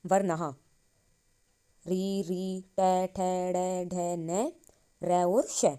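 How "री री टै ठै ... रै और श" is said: each retroflex letter sounded out in turn; sounding out the retroflex letters for the class; retroflex sounds recited. Shown as a demonstration. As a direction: drill टै, ठै, डै, ढै syllable by syllable. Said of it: "इनका उच्चारण हम मुद्रा से करते हैं".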